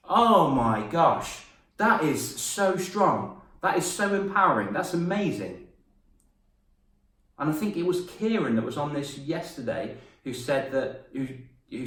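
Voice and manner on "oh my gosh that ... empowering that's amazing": amazed. Real, not acted. Amazed at Owen's story.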